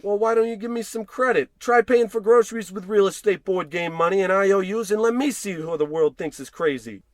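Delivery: high and loud indignant tirade; angry outburst. Acted. George furious at Marge for calling him crazy, loud and high. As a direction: fire back, offended.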